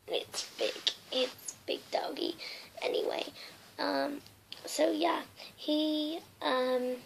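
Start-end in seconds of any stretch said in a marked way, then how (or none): 0.1-2.3 whisper. Real, not acted.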